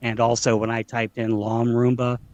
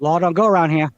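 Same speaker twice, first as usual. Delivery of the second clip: movie outlaw quote; 5 semitones higher, 6 dB louder than usual. Retold or imitated. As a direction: threaten like a Western outlaw. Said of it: "I can pull a movie quote".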